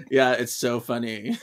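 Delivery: low-pitched reply breaking into giggles; amused imitation. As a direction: mimic agreeing through a laugh. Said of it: "She was like".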